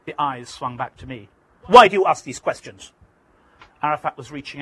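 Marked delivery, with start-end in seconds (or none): 1.7-2.9 suspicious challenge. Retold or imitated. Suspicious Arafat challenges interviewer.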